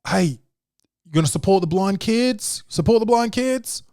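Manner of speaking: high, slow sing-song pitch to shoppers; charity pitch. Retold or imitated. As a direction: coax them with a sweet charity plea. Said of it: "Just be like".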